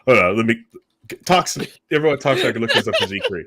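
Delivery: fast, laughing cover-up; sheepish giggled excuse; laughing, hurried. Real, not acted. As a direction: rush it out while cracking up.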